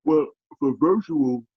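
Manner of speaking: talking through a yawn; stretched, yawning words. Real, not acted. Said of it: "I'm sorry for yawning".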